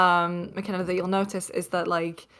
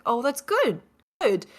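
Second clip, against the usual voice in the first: lightly pleased, raised-pitch "good"; American approving good; 3 semitones higher than usual. Shown as a demonstration. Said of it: "if you say good in the U S".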